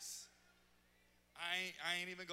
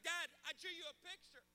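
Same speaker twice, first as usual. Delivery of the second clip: little son; 8 semitones higher than usual. Retold or imitated. Son quoted from back seat.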